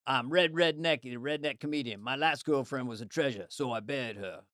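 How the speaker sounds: redneck comedian. Acted. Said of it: "here's the".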